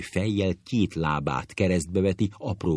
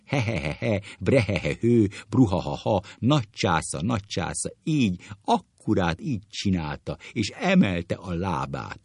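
hammed-up spelt-out guffaws; acted hilarity, lightly raised; roaring with laughter; 3 semitones higher than usual. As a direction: praise the imitation between mock belly laughs. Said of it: "Gümőke ordít és röhög".

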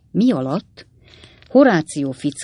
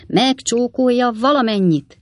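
much higher, sustained delighted call; enraptured cry; 7 semitones higher, 3 dB louder than usual. A narrator's reading. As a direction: cry out the climax in rapture. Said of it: "kiáltotta az elragadtatott kis úriember". (elragadtatott, magas hangú kiáltás)

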